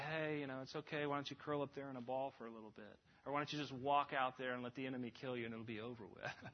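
soft, low, casual coddling; quick, quiet patter of mock comfort; mock soothing. Sergeant wrongly coddling a scared private, mock soothing. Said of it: "He doesn't just say".

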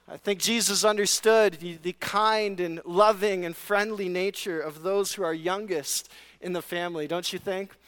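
dry mock sincerity, tongue in cheek; sarcastic. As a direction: say it straight-faced but mean the opposite. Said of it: "my sarcasm".

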